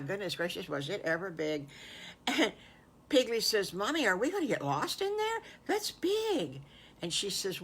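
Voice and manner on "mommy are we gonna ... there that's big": put-on high, fast, wide-eyed child voice; small pig awed by the store. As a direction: ask it amazed and a little worried. Child amazed at huge store.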